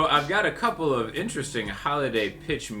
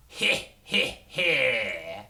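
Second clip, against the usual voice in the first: evil chuckle; 3 semitones lower, much slower than usual. Acted. Villain spirit appears.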